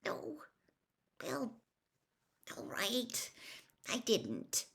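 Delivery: soft, high whispered admission; tearful. A narrator's reading. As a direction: concede it through tears.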